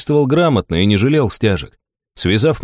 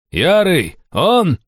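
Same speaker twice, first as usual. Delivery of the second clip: higher, excited cry of recognition; excited high call; 9 semitones higher, much slower than usual. Acted. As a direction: blurt it out high and eager. Stranger calls out recognising.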